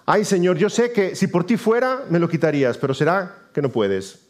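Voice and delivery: high-pitched, doubtful pleading that sinks at the end; mock plaintive prayer. Believer doubting God's power, mock plaintive. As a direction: plead like a believer unsure God can help. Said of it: "no encuentra consuelo en decir".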